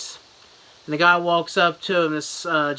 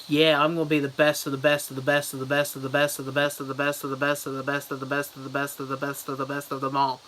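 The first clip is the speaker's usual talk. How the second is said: cocky racer; 2 semitones lower, 3 dB quieter, faster than usual. Retold or imitated. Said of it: "he's all like".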